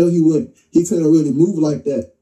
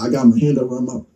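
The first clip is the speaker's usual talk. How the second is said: usual speaking voice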